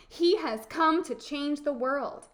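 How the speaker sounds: lightly voiced boy's proclamation; mildly urgent, full-voiced telling; earnest storybook boy. Boy urges, later echoed by Befana.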